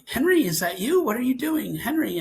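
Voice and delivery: retold anxious check on a kid; worried questioning.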